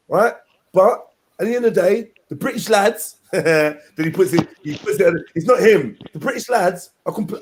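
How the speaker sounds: lightly voiced rambling street talker; a hint of Tommy pleading; Tommy Robinson impression. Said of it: "my Tommy impression".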